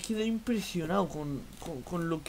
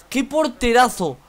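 slow high loud "porterazo"; excited praise; 7 semitones higher, 12 dB louder, slower than usual. Real, not acted. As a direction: stretch out "porterazo" in awe. Praising the goalkeeper.

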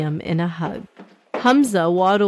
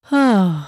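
sigh; 4 dB louder than usual. A narrator's reading. Sigh at thought of new friends.

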